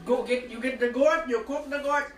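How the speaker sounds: demonstrating "goat" in an Indian accent; put-on Indian accent, leaning on "goat". Shown as a demonstration. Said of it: "You say goat like this".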